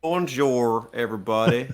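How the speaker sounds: a hint of a French accent; mock French greeting. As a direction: say hello like a Frenchman, lightly. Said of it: "What's a French accent?".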